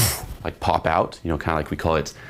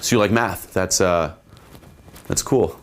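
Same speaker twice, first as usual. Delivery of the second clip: blasé. Shown as a demonstration. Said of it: "it's gonna be kind of blasé".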